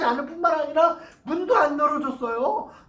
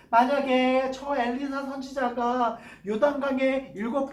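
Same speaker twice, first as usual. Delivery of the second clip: earnest pleading. Acted. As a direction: gently beg him to try once. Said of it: "이 신하가 간절히 얘기하는 것".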